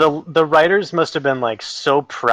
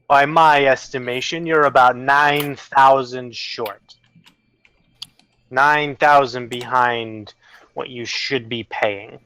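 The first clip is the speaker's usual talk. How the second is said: measured demand; slower than usual. Acted. Game master voices boss demanding money.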